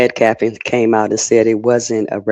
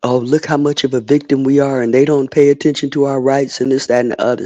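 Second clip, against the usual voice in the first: higher, sarcastic self-pity; mock victim whine; 5 semitones higher than usual. Sneering at people crying wolf, higher mock whine. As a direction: parody the crying-wolf complaint. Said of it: "stop fucking crying wolf".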